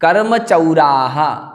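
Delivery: कर्म चौराहा slow, with a full "chau" diphthong; careful pronunciation. Shown as a demonstration. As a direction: draw out कर्म चौराहा as karma chau-raa-ha. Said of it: "दोबारा उच्चारण कर लेते हैं".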